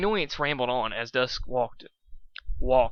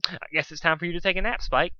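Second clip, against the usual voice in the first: through gritted teeth; 5 semitones higher than usual. Acted. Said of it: "he said through gritted teeth".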